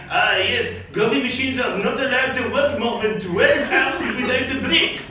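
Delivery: hammed-up French official, pitch climbing to the end; strange French accent. European official citing a work directive, strange French accent. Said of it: "Strange French accent".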